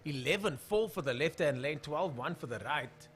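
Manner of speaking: punchy drag race commentary; brisk trackside commentator delivery; live race call. Real, not acted. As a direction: call out the times to the crowd. Calls race times live.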